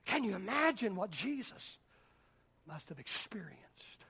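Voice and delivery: soft, breathless whisper; whispered awe over the cross; hushed whisper. Real, not acted. Hushed passage on God withdrawing.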